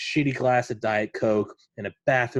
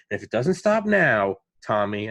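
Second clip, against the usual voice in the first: a hint of a scolding father, louder; mild mock fatherly scolding; stern father; 4 dB louder than usual. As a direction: lecture him like a dad, firmly. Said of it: "I felt like I was getting disciplined by my father".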